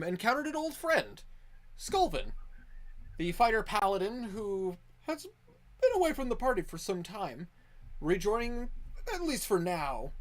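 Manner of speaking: measured storytelling narration of past events; game master's recap. Acted. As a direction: recount the party's adventure like a chronicler. Game master recaps last session.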